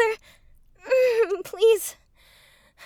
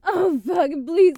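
climax cries; 7 semitones higher than usual. Acted. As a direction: ride it to the top, almost screaming. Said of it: "Oh, I'm coming".

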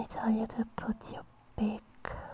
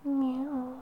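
kitten meow; 3 semitones higher than usual. Pretend. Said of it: "snuggle closer like a kitten".

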